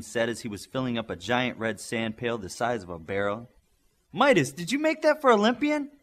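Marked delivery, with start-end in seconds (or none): 4.1-5.9 high, loud yell across the beach; yelled question. A narrator's reading. A girl yells at Midas across the water, loud. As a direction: call it out sharply. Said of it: "she yelled".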